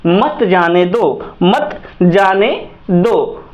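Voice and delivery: very slow "मत जाने दो", the repeat broken word by word; slow, spaced out. Shown as a demonstration. Teacher moves on after the pause, slow spaced "मत जाने दो". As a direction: draw out "मत जाने दो", separating the words on the repeat. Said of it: "उसके बाद आगे जाने का प्रयास".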